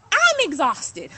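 loud, drawn-out "I'm exhausted", slowed down; exhausted outburst. Real, not acted. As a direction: lean hard into "exhausted". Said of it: "aggressive at the same time".

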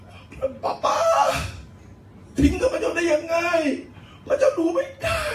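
high, strained cry to a father; พระเยซู. Acted. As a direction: cry out in anguish, pitch thrown way up. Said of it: "พระเจ้าพระเยซูได้บอกว่า". (ร้องเรียกพ่อด้วยเสียงสูงคร่ำครวญ)

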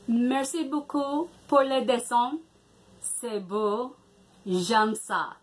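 "Merci beaucoup pour le dessin" pronounced carefully as a beginner; careful learner French. Real, not acted. Thanking a child for her drawing, careful learner French. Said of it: "So I'm gonna attempt this".

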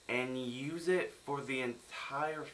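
ordinary talk, nothing marked

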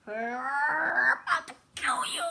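slow, breathy mock threat; menacing whisper. Playful threat during game.

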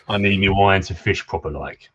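lightly voiced pirate accent. Drunk fisherman explaining his need for wine, light pirate accent. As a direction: put on a slight old pirate accent. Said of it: "you gotta do that pirate accent".

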